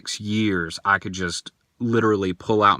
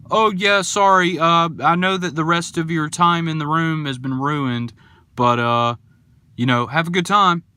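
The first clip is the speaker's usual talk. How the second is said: high, mock-sweet put-on voice, louder; mocking the worker; 5 semitones higher, 3 dB louder than usual. Storyteller mocks the escape room worker's apology, high and sugary. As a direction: ham up a fake apologetic employee.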